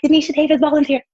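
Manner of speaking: high, tight, nervous. Retold or imitated. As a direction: squeak your name out nervously. Nervously presenting herself in court.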